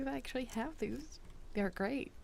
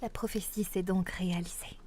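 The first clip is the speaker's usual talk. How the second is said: Zelda princess voice. Pretend. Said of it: "having way too much fun with that".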